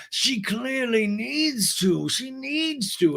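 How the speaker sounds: high, slow, posh lady voice; drawn-out and haughty; Lisa impression. Lisa judging James, high slow posh voice. Mocking Lisa Vanderpump on reality show.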